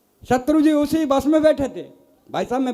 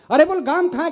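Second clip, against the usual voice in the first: exasperated call; 6 semitones higher, faster than usual. Retold or imitated. Husband calls wife in quarrel.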